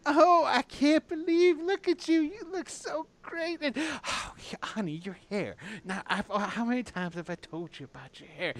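high, fussing mother voice; doing the mom thing. Acted. Mother gushing over her grown son, high and doting. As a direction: gush over the son like he's still a little boy. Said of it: "doing the mom thing".

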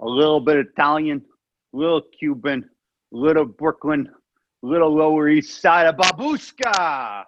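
lightly hammed-up mixed Cuban-Italian-Brooklyn accent; Pacino's Cuban accent, loosely imitated. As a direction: play a muddled Pacino-style Cuban accent. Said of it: "I do Pacino Cuban".

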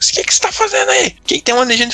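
high-pitched stern mom voice; mother questioning. Retold or imitated. Mother on the phone questioning her drunk son, high and stern. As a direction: grill your son like a suspicious mother. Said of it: "ela falou comigo".

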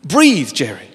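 high, slow Jerry breathe, then back down; lightly acted, soothing a panicking friend; calming athlete. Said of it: "He says".

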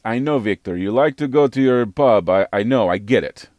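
lightly put-on Russian accent; playful hint of a Russian accent, teasing a friend. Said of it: "I gotta use the Russian voice".

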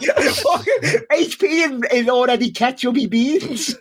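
can barely get the words out for laughing; laughing through it. Real, not acted. Retelling coworker's tip, laughing.

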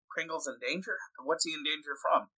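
high character voice. Acted. Character asks in voice.

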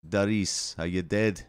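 mock Jamaican film quote; amateur Jamaican impression; attempted Jamaican accent. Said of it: "is Cool Runnings quotes".

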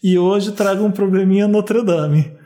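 carioca accent, reading a letter aloud; Rio accent. Shown as a demonstration. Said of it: "Eu vou ler com sotaque carioca".

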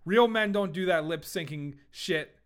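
tough rap mogul bravado; Suge Knight. Retold or imitated. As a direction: act the hard-nosed label boss. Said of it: "I might sound like Suge Knight here".

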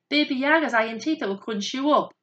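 high-pitched cry of alarm. A narrator's reading. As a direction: warn them like a frightened bird. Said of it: "cried the birds".

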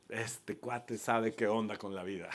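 dicho con risa, más suave; cuéntalo entre risas, de buen humor; laughing Jesus line. Retold or imitated. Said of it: "Y Jesús le dice". (Jesús alabando a Pedro entre risas)

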